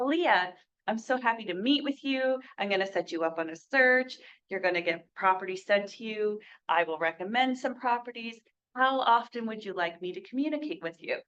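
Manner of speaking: unhurried pitch, one sentence at a time. Shown as a demonstration. Agent matching a slow-talking client, measured pace. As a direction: give each sentence room, evenly and calmly paced. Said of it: "if you're dealing with someone who's more slower".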